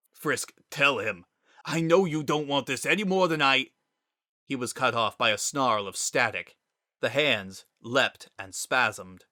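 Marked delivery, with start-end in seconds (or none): 0.1-3.7 1 arguing. Acted. Sans arguing with Gaster.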